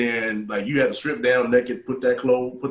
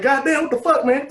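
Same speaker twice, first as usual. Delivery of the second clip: mock shock; 7 dB louder than usual. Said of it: "I was like".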